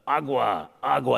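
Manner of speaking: loud drilled repetition of a word; mock teacher drill. Comedian mocks the immersion teacher drilling water. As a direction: bark the word like a drill instructor.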